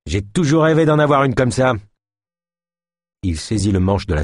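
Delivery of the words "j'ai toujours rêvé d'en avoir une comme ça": higher, eager exclamation; exclaiming. Acted. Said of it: "s'exclama ce dernier". (exclamation avide, plus aiguë)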